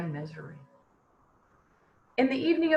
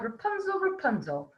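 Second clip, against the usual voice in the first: calling up the tower; 5 semitones lower, 5 dB quieter than usual. Acted. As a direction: call her name up to the window.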